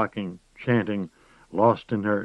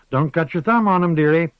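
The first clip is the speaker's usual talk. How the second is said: higher, louder crone voice; a sly warning to the girl; old witch cautioning her dearie; 9 semitones higher, 7 dB louder than usual. A narrator's reading. Moss warns the girl.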